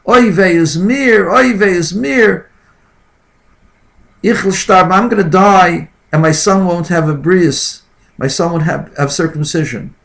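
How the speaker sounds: put-on high wailing cry in a Yiddish accent; yelling. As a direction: wail it out like a desperate mother. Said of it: "I hear a woman yelling".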